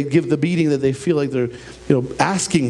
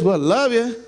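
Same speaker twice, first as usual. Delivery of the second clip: careless love you; 5 semitones higher than usual. Retold or imitated. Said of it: "it's not this".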